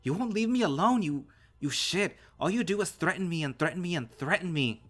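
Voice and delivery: high, very loud, drawn-out anguished screams; screaming meltdown. A narrator's reading. Son's screaming breakdown at father.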